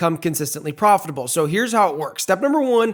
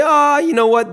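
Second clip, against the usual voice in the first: fed-up trader; 8 semitones higher, 6 dB louder than usual. Retold or imitated. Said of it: "You say".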